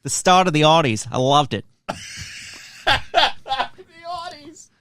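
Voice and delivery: a laughing, fond Aussie voice; Australian accent. Pretend. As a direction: gush about the Olympics like a local. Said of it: "you're Australian?".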